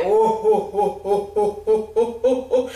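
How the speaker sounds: jolly "oh, oh" from a big belly; lightly voiced Santa chuckle; Santa laugh. Shown as a demonstration. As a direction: laugh like Father Christmas. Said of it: "le rire du Père Noël".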